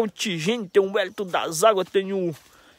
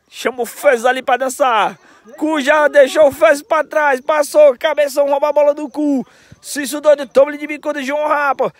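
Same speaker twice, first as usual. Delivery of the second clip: live play-by-play; 4 semitones higher, 4 dB louder than usual. Real, not acted.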